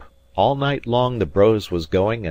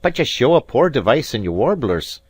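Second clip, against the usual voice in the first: higher, louder, condescending; haughty Scots piper talking down; condescending rival; 6 semitones higher, 6 dB louder than usual. Acted. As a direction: patronise him sweetly. Robin's jab at Alan.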